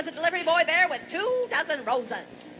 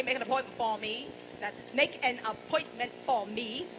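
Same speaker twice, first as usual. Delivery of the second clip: slowed repeat; 3 semitones lower, 5 dB quieter than usual. Shown as a demonstration. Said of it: "Am I talking too fast?".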